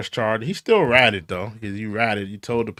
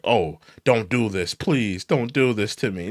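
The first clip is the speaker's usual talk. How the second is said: slower, lower, whiny mock pleading; mock pacifist plea; 3 semitones lower than usual. Mocking Jim Jones as a fake pacifist, slow whiny plea. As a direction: play him as a fake peacemaker begging. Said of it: "don't act like you was a pacifist".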